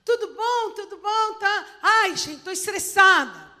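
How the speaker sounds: high, chirpy girl's voice, lightly mocked; a high, breezy girlfriend gushing hello; chirpy friend. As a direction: imitate a bubbly college friend. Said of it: "Aí chega a amiga".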